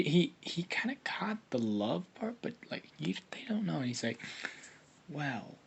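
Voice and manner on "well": a flirty unvoiced whisper. Naruto whispering sweet nothings into Hinata's ear, whispered. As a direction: breathe it close into her ear. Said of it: "this is Naruto whispering into Hinata's ear".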